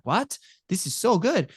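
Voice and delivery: put-on a thrilled four-year-old tasting the cookie; delighted little son. Dad imitating his son, high and delighted.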